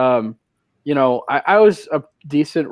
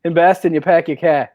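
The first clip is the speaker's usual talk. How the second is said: Boston vowels, r dropped in "car"; "pack your car" in rough Boston; Boston accent; 3 semitones higher, 3 dB louder than usual. Shown as a demonstration. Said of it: "can you do a Boston accent".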